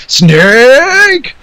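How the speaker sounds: loud gruff callout; Solid Snake shout. Pretend. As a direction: bark the name out.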